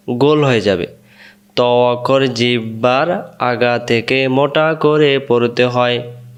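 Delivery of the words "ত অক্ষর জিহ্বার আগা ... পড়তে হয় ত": slow, careful dictation pace; slow deliberate teacher's repetition; slow teaching demo. Shown as a demonstration. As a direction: spell out the rule slowly for students to follow. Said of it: "আরেকবার".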